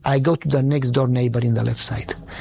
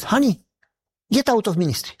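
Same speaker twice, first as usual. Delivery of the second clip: rebuke; 5 semitones higher than usual. Retold or imitated. Wife's retold rebuke to him.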